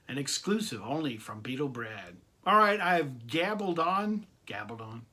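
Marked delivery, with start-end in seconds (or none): 4.5-5.0 amused repeat. Shown as a demonstration. Vlogger savouring a made-up word, soft amused repeat. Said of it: "Making up my own stupid words now".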